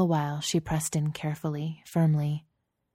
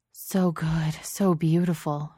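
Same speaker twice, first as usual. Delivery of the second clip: praising; slower than usual. Acted. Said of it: "praised Genevieve".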